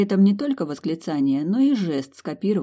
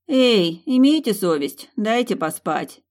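louder grumbling protest; 5 semitones higher, 5 dB louder, slower than usual. A narrator's reading. Two sleepy friends grumbling at Milly, loud grumble. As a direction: grumble at being woken. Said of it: "ворчливо возмутились обе".

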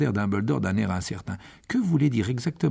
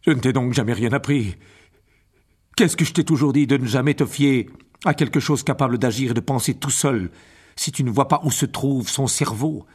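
stunned father scolding; 4 dB louder than usual. Acted. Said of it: "s'exclama monsieur Weasley stupéfait".

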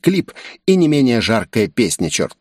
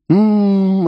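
sweet hum; 11 semitones higher, 4 dB louder than usual. A narrator's reading. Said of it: "сладостно улыбнулся".

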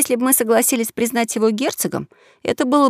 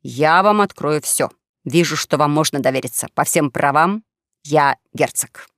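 slow, ceremonious revelation with weighty pauses; solemn; 5 semitones lower, slower than usual. Acted. Young swindler revealing noble birth to companions, solemn tone. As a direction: proclaim it gravely, lingering on the key words. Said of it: "сказал молодой торжественным тоном".

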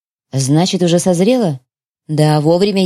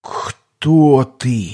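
frightened question; 4 semitones lower than usual. Acted. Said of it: "с ужасом в глазах спросил".

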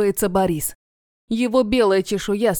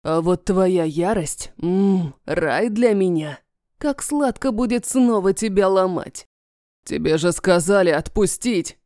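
menacing dragon voice; 3 semitones lower than usual. Acted. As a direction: savour every threat. Dragon villain menacing captive.

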